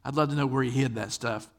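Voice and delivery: ordinary talk, nothing marked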